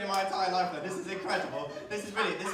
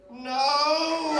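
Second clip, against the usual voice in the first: mock yell; 4 semitones higher, 6 dB louder than usual. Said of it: "The little guy just was like".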